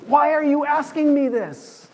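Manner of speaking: high, plaintive inner voice; inner whine. Retold or imitated. Peter's inner voice asking Jesus, high hurt plea. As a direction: let it rise like a hurt plea. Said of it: "his little brain saying".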